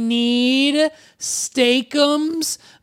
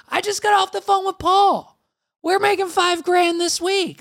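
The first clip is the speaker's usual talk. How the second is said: booming prize announcer; 10 semitones higher than usual. Acted. Hyped bragging about the prize.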